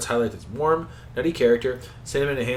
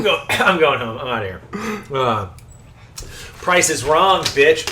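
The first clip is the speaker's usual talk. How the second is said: Happy Gilmore quote; 3 semitones higher, 4 dB louder than usual. Retold or imitated. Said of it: "we have Happy Gilmore on in the background".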